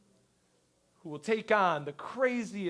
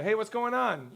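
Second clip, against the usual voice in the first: casual phone greeting; 4 semitones higher than usual. Acted.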